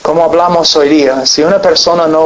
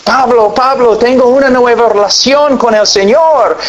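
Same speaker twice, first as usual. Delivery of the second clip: eager quote; 7 semitones higher than usual. Retold or imitated. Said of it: "una persona viene a mí diciendo".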